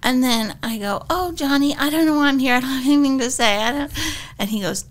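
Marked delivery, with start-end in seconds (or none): 1.1-3.6 lightly flustered actress impression; a hint of a hesitant, self-effacing guest; Terry Garr. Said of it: "Terry Garr".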